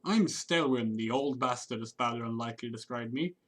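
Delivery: put-on loosely Irish-ish accent, rolled R's; hammed-up half Irish accent; terrible Irish-ish accent. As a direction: read the sailor's lines in a mock Irish-ish lilt. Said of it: "my terrible accents".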